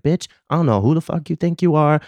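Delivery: retold angry confrontation. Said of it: "I got real ghetto real quick".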